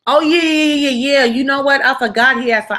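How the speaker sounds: nervous cover-up yeahs; playing it off. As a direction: pretend you just remembered. Playing it off, faking memory.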